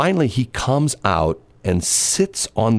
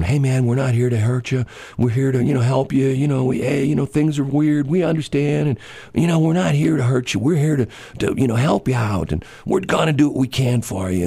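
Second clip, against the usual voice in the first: lightly voiced cop talking someone down, pitched up; reassuring cops; 5 semitones higher than usual. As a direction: imitate police placating a man, lightly. Imitating cops reassuring the man.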